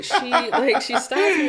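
laughing through the retelling; a real laugh breaks into the words. Real, not acted. Retelling how the yoga partner stopped her, laughing.

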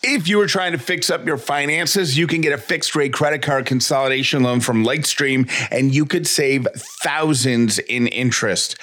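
upbeat, clear sponsor read; bright, steady commercial read. Acted. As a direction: sell it like a podcast ad. Host reads sponsor ad.

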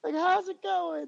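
put-on baby-talk him like a lost kid; talking down to a child. Thought I was a mentally disabled child.

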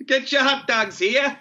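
high, slow hot dog vendor call; sing-song market hollering. Pretend.

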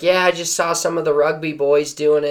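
put-on terrible Australian accent. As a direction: quote him in a clumsy Australian accent. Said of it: "this is a terrible Australian accent".

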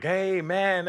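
high, drawn-attention hail; mock unsubtle hello; overeager loud greeting. Shown as a demonstration. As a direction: call it out like an excited fan. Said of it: "it wasn't like I was like".

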